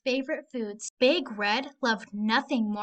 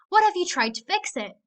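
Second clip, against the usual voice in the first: owl counselor; 7 semitones higher, 5 dB louder than usual. Acted. Owl counselor asks kindly.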